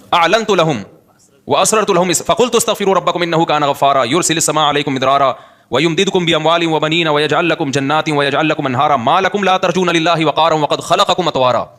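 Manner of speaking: slow, level-pitched Arabic recitation; steady recital from memory; Quran recitation. Real, not acted. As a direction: recite the verse in measured, drawn-out Arabic.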